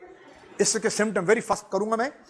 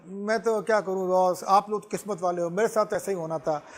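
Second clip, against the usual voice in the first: self-pitying whine. Retold or imitated. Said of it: "अपने आप को पिटिएबल".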